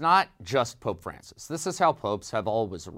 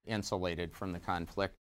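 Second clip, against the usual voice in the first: ordinary talk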